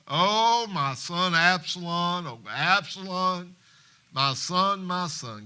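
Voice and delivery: slow, wailing lament of a grieving father; crying out in grief. Acted. Father mourning his dead son, slow wail. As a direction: draw out the cry for his lost son. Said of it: "the king cried with a loud voice".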